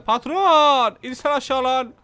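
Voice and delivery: loud call to the boss; yelling after the boss. Acted. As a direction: shout the boss's name across the street.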